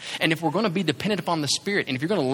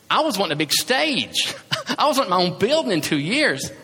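laughing; 3 semitones higher, 3 dB louder than usual. Real, not acted. Laughing at own big hopes.

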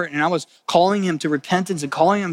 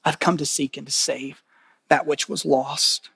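gentle Jesus; 4 dB quieter than usual. Acted. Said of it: "And Jesus says this".

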